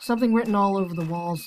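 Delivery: ordinary talk, nothing marked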